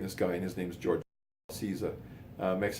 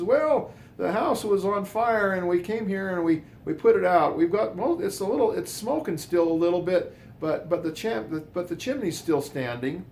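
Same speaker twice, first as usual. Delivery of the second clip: much higher, louder put-on chief voice; fake fire chief; 10 semitones higher, 5 dB louder than usual. Posing as fire chief to brother-in-law, high loud put-on voice. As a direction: hide who you are behind a high official voice. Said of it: "Chief Fredrickson of the Ogden Fire Department".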